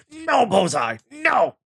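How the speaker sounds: high, loud drawn-out wail of no; daughter crying out. Retold or imitated. Dad acting out daughter pleading with Bullseye, anguished shout. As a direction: imitate a distraught child shouting at the screen. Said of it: "all I can see is Evie going".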